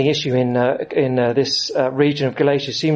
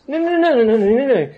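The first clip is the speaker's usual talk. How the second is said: emphatic no; 8 semitones higher than usual. Real, not acted. Preacher rejecting the false claim.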